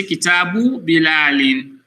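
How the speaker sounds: Kitabu Bilalin, careful Arabic case endings; teacher modelling Arabic; Arabic pronunciation. Shown as a demonstration. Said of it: "So you say".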